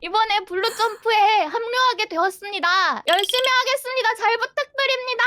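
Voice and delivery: high bubbly fast greeting; chirpy idol-style sign-off; cute anime streamer. Acted. New member's cute greeting. (귀여운 애니 스트리머 말투)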